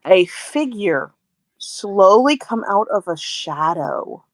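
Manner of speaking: slow, suspenseful scene setting; game master narration. Acted. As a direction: unveil the figure slowly, with long pauses.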